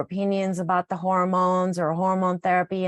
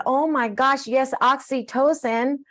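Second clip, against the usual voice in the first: thrilled yes; 6 semitones higher than usual. Retold or imitated. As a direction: burst out with happy agreement. Retelling her own thrilled reply.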